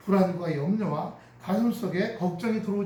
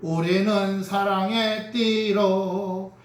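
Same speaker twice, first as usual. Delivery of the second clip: slow, louder, drawn-out proclamation; solemn declaration; 6 dB louder, much slower than usual. Shown as a demonstration. Congregation proclaiming family unity in a slow solemn voice. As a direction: declare it slowly with conviction. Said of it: "이렇게요".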